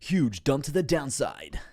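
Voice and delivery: loud, high, drawn-out announcement; mock-dramatic crash call; hammed-up exclamation. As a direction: boom it out slowly in a put-on voice. Streamer exclaims over a price crash.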